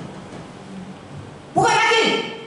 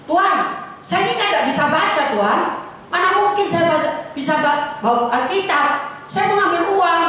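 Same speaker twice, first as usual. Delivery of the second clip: a hint of a humble servant pleading, a bit higher; lightly voiced gardener; 5 semitones higher than usual. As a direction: lightly play the gardener begging. (tukang kebun memohon dengan suara sedikit tinggi)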